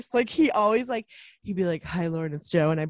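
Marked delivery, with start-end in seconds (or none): 1.8-2.7 put-on sexy voice, lower pitched. Retelling how a coworker greeted her on the phone: imitating Joe's sexy voice. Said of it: "Joe had the sexiest voice".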